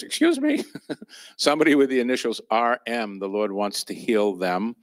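bold public announcement; declaring it with bold confidence. Retold or imitated. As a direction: call it out boldly to the room. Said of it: "with a bold voice".

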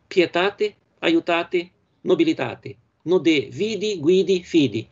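pietate, aiutate, nobilitate, vidi, guidi, fidi read out in Italian; Italian rhyme words. Shown as a demonstration. Teacher reading out the Italian rhyme words in class. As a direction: give each Italian rhyme word its own clear beat. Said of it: "Depois o C".

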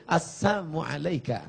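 soft, sneering near-hush; sweet on the surface, mocking beneath; soft sly greeting. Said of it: "Bunyinya lembut". (salam lembut menyindir)

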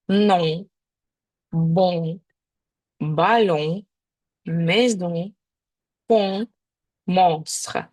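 French words said with clear nasal vowels. Shown as a demonstration. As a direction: show the nasal sound in each word. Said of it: "В яких словах його гарно чутно?". (французькі слова з носовим звуком)

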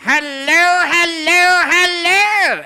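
sing-song puppet greeting; puppet hello. Acted. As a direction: sock puppet calling hello.

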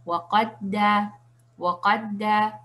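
waqadda lento, con la d doble unida; salto a la shadda. Shown as a demonstration. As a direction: di waqadda saltando directo a la d reforzada. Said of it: "saltar directamente a la shadda". (waqadda con shadda, sin separar las d)

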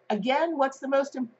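put-on light English accent; half-hearted British try. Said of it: "that sounds like I'm from England".

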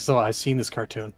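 weary sigh. Acted. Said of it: "Geigo just sighs".

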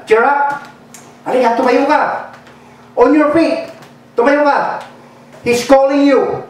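high eager calls to the blind man; calling out. Retold or imitated. Followers calling the blind man to Jesus, excited calls. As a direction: urge him up, excited. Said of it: "so they called to the blind man".

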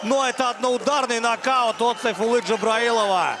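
loud, high excited commentary; excited knockout call. Real, not acted. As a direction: yell out the knockout. Commentator sees knockout live.

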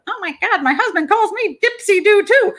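high, startled woman's voice; a wife suddenly recognising her husband's pet phrase; shocked wife. Pretend. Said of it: "some poor woman's gonna go".

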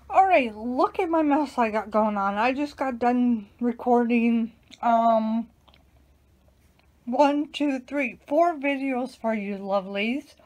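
talking while chewing gum; words round a wad of gum. Real, not acted. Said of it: "And I'm chewing gum right now".

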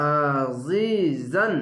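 আজিজান very slow, the জি stretched; Quranic recitation demo. Shown as a demonstration. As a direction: stretch the জি in আজিজান, throat-pressed আইন. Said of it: "এক আলিফ টেনে পড়বেন". (টেনে আজিজান তিলাওয়াত)

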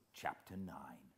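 hushed, breathy announcement; whispered chapter title. Acted. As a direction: whisper the chapter number like a secret.

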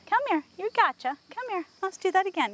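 high-pitched, sing-song coaxing; coaxing a horse. Real, not acted. Trainer calls horse back to try again, high coaxing.

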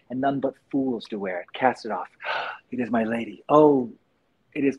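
stage recitation of Shakespeare; reciting Romeo under the balcony; Romeo soliloquy. Shown as a demonstration. Actor performing Romeo's balcony speech for the chat, recited. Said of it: "I can give you a whole soliloquy".

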